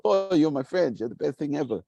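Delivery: high squealing delight over a shared passion; suddenly thrilled, voice jumping way up. Retold or imitated. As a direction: gush like you just met your best friend.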